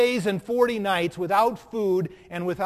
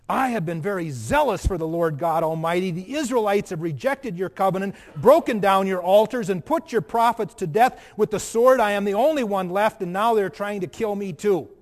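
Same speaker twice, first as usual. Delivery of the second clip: louder, pleading prophet's lament; Elijah's complaint; 6 dB louder than usual. Acted. Preacher voices Elijah pleading his case to God, loud and aggrieved. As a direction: pour out the prophet's grievance to God.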